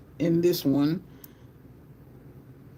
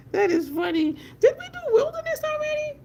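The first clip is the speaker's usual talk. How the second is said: high squeaky voice after laughing; real mirth lifting the voice way up; amused, laughed-out; 3 dB louder than usual. Real, not acted. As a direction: talk high while still tickled. Recovering from laughing at nephew.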